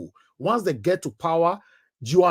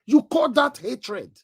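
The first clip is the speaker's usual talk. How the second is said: indignant; 4 semitones higher, slower than usual. Real, not acted. Indignant rhetorical question.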